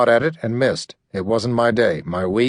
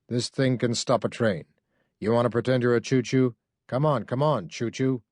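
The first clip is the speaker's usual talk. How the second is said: menacing taunt; 8 dB quieter than usual. A narrator's reading. Gun leveled, menacing taunt.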